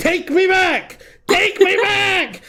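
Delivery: mock, very high, stretched-out, drawn-out shouting. Retelling a scene where a student demands to go back: imitating someone yelling. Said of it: "Why are you yelling at her?".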